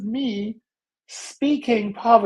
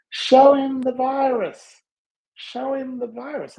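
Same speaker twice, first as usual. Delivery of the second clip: inner voice; 5 semitones higher than usual. Retold or imitated. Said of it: "I hear my voice, my inner voice saying".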